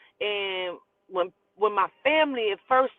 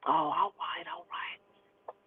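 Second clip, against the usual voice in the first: soft, fading acceptance; resigned backing down; 8 dB quieter, much slower than usual. Retold or imitated. Daddy gives in after her refusal, quiet and resigned. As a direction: back off quietly, trailing away to almost nothing.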